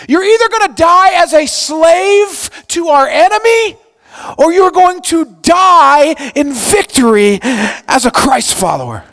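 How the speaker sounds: loud, high rallying call; rally the crowd forward; urgent shout. Retold or imitated. Moses calling out to the people, urgent shout.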